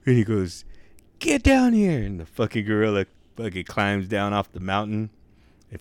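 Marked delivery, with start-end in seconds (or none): 1.2-2.0 high, loud mock command; retold holler, pitched way up; shouted order. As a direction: yell it up to an animal far above. Man orders gorilla off the cliff.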